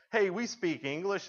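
loud, slow, proud declaration; mock proud announcement. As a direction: announce it loudly and slowly, like big news. Proudly telling English hosts.

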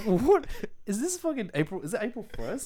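high-pitched comic disbelief; hammed-up baffled questioning; incredulous. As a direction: react as if it must be a prank. Reenacts disbelief at the advert.

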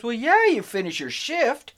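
high, drawn-out "well, yeah"; emphatic concession. Retold or imitated. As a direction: imitate a dad stating the obvious, slowly. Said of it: "And he goes".

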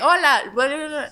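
high, bright upbeat greeting; bubbly youtuber greeting. Retold or imitated. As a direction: pitch it up like a cheerful youtuber. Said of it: "no tenía como que".

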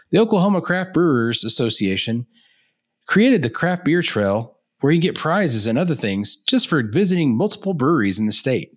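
high, bright sales pitch; infomercial voice. Acted. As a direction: sell it like a TV ad. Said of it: "trying to do, like, the infomercial thing".

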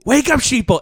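high, loud rallying cry; fiery revolutionary speech. Pretend. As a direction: rouse the sheeple to revolt. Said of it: "I'm ranting about corporate America".

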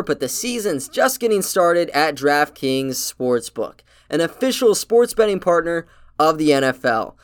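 upbeat sponsor ad read. Acted. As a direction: sell it like a podcast ad.

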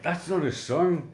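light impression of a posh psychiatrist; imitating the psychiatrist. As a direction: drag it out like a stuffy shrink. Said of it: "where he's like".

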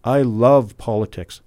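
"I love politics" drawn out slowly, "love" stretched and falling; mimicking Samantha. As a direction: quote her in a slow, gushing tone. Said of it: "Samantha's response was".

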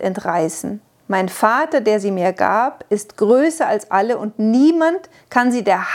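a measured, solemn reading of the Gospel; lightly intoned Gospel reading; solemn scripture reading. Acted. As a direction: proclaim the words of Jesus gravely. Reads out Jesus' words.

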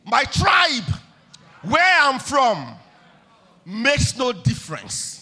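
loud, slow, preached proclamation; shouted creed, slowed; emphatic declaration. Shown as a demonstration. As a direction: call it out for the church to repeat.

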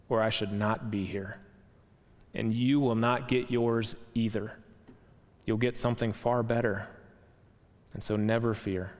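lightly voiced kindly spirit; gentle spirit. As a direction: soothe him, unhurried. Spirit reassures the ghost.

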